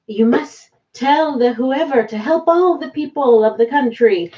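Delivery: lightly put-on Russian accent; a hint of a Russian accent, half-joking. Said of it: "that was my Russian accent".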